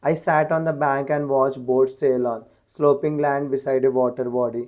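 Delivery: reads each word out very slowly and evenly; slow dictation reading. Shown as a demonstration. Teacher reading an example sentence to students, slow dictation. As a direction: spell the sentence out slowly for the class.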